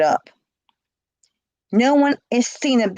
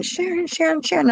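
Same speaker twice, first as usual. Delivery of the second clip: retold scream; 8 semitones higher than usual. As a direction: imitate a friend screaming a name, held back in volume. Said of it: "She's screaming".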